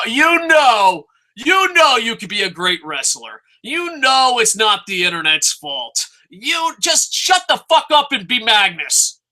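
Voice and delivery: frustrated fan shouting at a wrestler; exasperated shout. Real, not acted. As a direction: yell at him to get it together. Yelling advice at Magnus.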